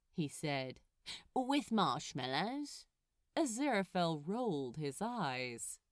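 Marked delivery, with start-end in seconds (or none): 1.3-2.8 slow, hopeful ask from the demon; a touch of a sulky demon perking up; lightly voiced hopeful Crowley. A narrator's reading. Crowley asking the angel for marshmallows, slow and hopeful.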